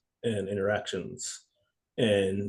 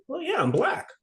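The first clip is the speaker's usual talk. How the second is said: matter-of-fact. Retold or imitated. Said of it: "I was like".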